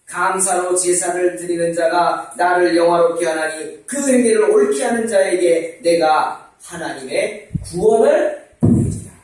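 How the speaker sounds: slow, emphatic Bible reading; scripture recitation. Acted. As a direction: proclaim the verse slowly with mounting volume. Recites scripture aloud to congregation.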